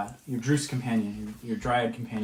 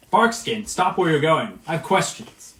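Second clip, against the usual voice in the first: higher, louder call after someone walking away; harpy's shout; 6 semitones higher, 6 dB louder than usual. Acted. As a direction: order her to stop from behind. Harpy shouts after departing dryad.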